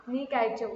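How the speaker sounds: नी काइचो, careful Malayalam try; Malayalam phrase. Shown as a demonstration. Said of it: "spell भी करो ना". (मलयालम उच्चारण की कोशिश)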